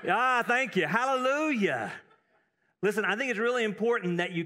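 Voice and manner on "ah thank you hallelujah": higher, louder, cheering the answer; pleased hallelujah. Real, not acted. Preacher thanking the congregation, joyful hallelujah. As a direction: reward the congregation's reply. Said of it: "what word did you hear repeated".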